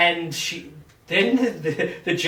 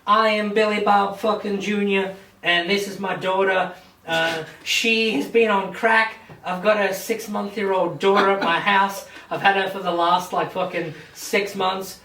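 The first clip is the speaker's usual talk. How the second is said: pleading father; 5 semitones higher than usual. Retold or imitated. Father to the judge, hammed-up higher desperate plea. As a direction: ham up the desperate dad begging.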